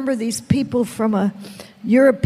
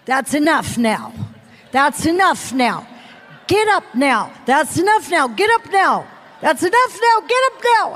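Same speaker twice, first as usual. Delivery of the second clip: mortified husband. Retold or imitated. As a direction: imitate an embarrassed husband insisting, rising in pitch. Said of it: "He is mortified".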